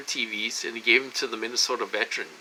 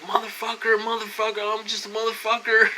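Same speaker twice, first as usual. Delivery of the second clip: retold cocky taunting; 8 semitones higher than usual. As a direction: re-enact cocky swearing at nobody. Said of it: "I get a little cocky ... a little arrogant".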